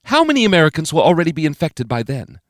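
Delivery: grim President grilling her cabinet; stern President. A narrator's reading. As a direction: press the room for an answer. President voiced demanding.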